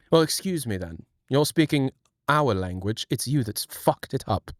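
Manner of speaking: low, affronted British retort; mock British accent. British person answering a doubter about the language, affronted. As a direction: put on an offended British accent.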